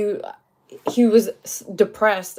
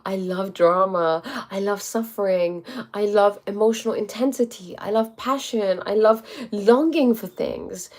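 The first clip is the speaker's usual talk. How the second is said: slow, deliberate. Shown as a demonstration. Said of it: "speak it consciously".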